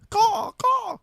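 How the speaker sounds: high cawing bird call; crow caw. Pretend. Crow noise mocking Eagles.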